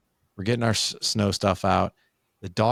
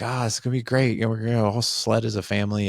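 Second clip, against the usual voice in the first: higher, upbeat family-plan voice; eager anticipation; 3 semitones higher than usual. Retold or imitated. Dad picturing the family sledding in the snow, eager. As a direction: gush mildly about the plan.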